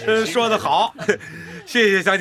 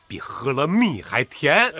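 contented laugh; slower than usual. Acted. Farmer moved by villagers' praise.

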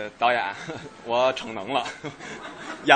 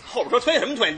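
raised pitch, mock road rage; irritated driver; 3 semitones higher than usual. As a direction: snap at the car behind. (假装不耐烦地骂后面的车)

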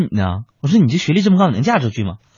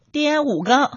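put-on child voice; 11 semitones higher, 4 dB quieter, slower than usual. Son answering father in joke.

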